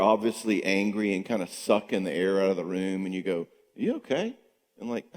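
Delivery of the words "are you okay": concerned question. Retold or imitated. Asking a sulking partner.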